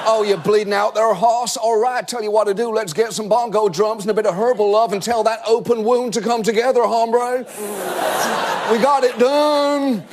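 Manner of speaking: lightly voiced laid-back McConaughey; Matthew McConaughey impression. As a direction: mellow stoner cowboy talk. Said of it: "Matthew McConaughey".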